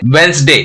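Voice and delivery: वेंसडे in two syllables, "wens-day"; silent D. Shown as a demonstration. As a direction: drop the first D in वेंसडे. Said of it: "क्या हो जाएगा". (वेंसडे में पहला ड silent)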